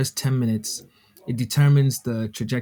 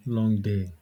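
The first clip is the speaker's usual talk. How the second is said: low, tired and fatigued; worn out after a long day; 3 semitones lower, 6 dB quieter than usual. Real, not acted. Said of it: "Be like some low, sexy voice".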